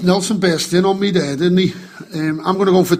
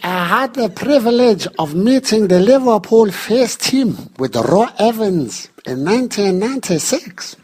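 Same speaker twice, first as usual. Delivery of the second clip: Nelson impression. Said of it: "Nelson, you're late".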